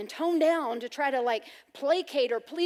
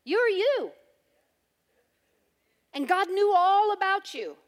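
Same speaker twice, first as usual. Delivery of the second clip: louder, higher emphatic declaration; preaching climax; 4 semitones higher, 6 dB louder than usual. Real, not acted. Preacher declaring God's knowledge to the congregation, loud. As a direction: proclaim it to the whole room.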